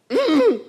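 high closed-mouth mock whine; dismayed whimper. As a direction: squeak out wordless dread. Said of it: "they were greatly dismayed".

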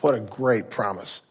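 ordinary talk, nothing marked

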